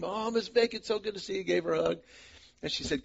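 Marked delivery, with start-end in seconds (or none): 0.0-1.4 cheerful greeting. Retold or imitated. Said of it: "just came".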